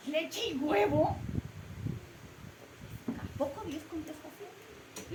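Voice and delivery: slow, baffled echo; puzzled surprise. Acted. Missionary baffled by God's answer, slow disbelief.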